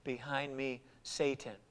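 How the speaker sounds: low, soft, measured rebuke; firm but gentle. Retold or imitated. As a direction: rebuke gently, slow and quiet. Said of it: "firmly but gently, saying".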